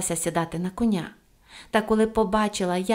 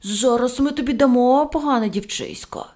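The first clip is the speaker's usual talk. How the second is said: loud, threatening yell; angry shout; 4 semitones higher, 5 dB louder than usual. A narrator's reading. Tricked policemen rushing at Pippi, angry shout. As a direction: shout the threat at a naughty child. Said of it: "кинулись до Пепі й закричали".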